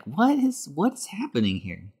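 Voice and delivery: high puzzled yelp then trailing off; startled little creature asking; surprised. Retold or imitated. Soot sprites voiced, puzzled.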